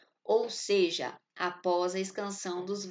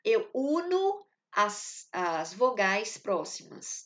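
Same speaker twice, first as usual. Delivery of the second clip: slow, deliberate teaching voice; slow emphatic explanation; slower than usual. Shown as a demonstration. Teacher stressing a rule to the class, slowly. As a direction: spell out the rule word by word. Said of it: "essa é outra regra da escansão".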